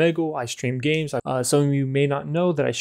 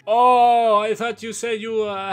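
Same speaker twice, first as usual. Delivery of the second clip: mock Russian accent; 5 semitones higher than usual. Apologizes in broken English.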